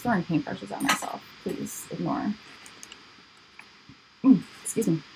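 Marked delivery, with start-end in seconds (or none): 4.2-5.0 talking through hiccups. Real, not acted. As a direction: hiccup between words. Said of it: "And I'm also hiccuping".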